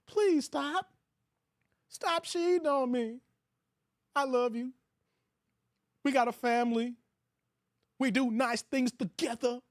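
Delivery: mocking a begging husband. Man begging his cheating wife to stop, mock pleading. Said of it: "That's how y'all sound".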